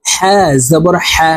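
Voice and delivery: হা said from the middle of the throat; breathy throat ha in হা জবর হা. Shown as a demonstration. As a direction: model হা from mid-throat. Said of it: "হলকের মধ্যখান থেকে এই হা হরফের উচ্চারণ করব".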